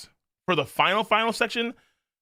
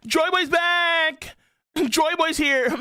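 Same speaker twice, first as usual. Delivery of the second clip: higher, hammed-up gushing with a yell; sarcastic mock glee; mock excited; 9 semitones higher, slower than usual. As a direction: gush like a giddy fan, half laughing. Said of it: "if he was so excited and happy".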